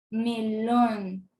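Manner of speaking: melón with a drawn, weighted last syllable; me-LÓN, said as an isolated example; stress on final LÓN. Shown as a demonstration. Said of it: "intensidad de la pronunciación".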